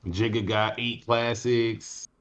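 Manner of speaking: slow, low mock fan voice; mocking a rapper's fan. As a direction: drawl it like a smug fan. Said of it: "They be saying stuff like".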